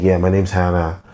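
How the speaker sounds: a hint of mock American accent; typical American accent. Giving a made-up name as an example, lightly imitated American accent. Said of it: "your typical American accent".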